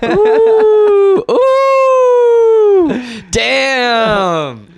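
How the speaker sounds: high delighted squeal of ooh; excited squeal. Acted. Reacting to DJ nickname.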